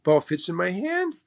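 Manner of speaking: lightly voiced Mo impression. Golfer reassures worried player that the ball fits, lightly imitated. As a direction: say it as an imitated old hand dismissing worriers. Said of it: "he just looked at me and he goes".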